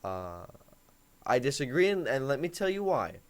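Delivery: soft, low, quiet reasoning with her; calm tone when she gets angry; calm, reasoned. Shown as a demonstration. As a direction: quietly talk her down without giving in. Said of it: "You gotta be, you know".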